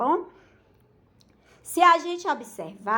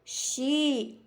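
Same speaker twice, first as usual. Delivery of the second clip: XI said alone and drawn out; single out "xi" as one long syllable; strong syllable isolated. Shown as a demonstration. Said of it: "que é a mais forte".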